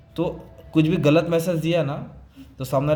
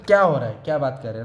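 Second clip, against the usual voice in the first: pitch variation; faster than usual. Shown as a demonstration. Teacher showing students what pitch variation is, pitch rising then dropping. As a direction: swing the pitch up, then let it drop. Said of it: "इसको pitch variation बोलते हैं".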